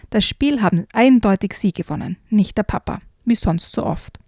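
put-on lively read-aloud for children; storyteller reading a frog tale aloud; story reading. A narrator's reading. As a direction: read it like a bedtime book.

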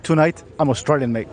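put-on a light, unconvincing Australian accent. To his co-host, pretending to be Australian, in a mock Australian accent. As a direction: lean into the Aussie vowels on mate, half-joking. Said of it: "put that full Australian accent on".

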